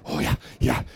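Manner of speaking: retold declaration, from hesitant to triumphant; building to a bold declaration. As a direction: go from unsure to shouting it out. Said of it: "Und sie so".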